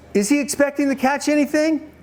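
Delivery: "Is he expecting to catch anything" held high throughout; pointed repeated question. Real, not acted. Preacher pressing congregation for an answer, "anything" pitched high.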